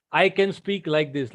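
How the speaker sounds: full ordinary speaking volume; normal volume. Shown as a demonstration. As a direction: bring the volume back up to normal. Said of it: "we also have a volume".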